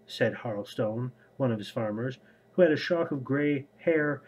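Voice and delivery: steady, even read-aloud voice; audiobook-style reading with lightly voiced characters; story narration. A narrator's reading. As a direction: read the book passage to your viewers. Reads novel excerpt aloud.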